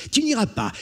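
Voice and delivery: "Tu n'iras pas" high and loud, mocking threat; menacing. Brigand to stubborn Jean, sneering "Tu n'iras pas".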